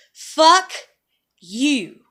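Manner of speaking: angry woman yelling at her judging family; loud angry curse. Real, not acted. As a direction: spit out each word in fury.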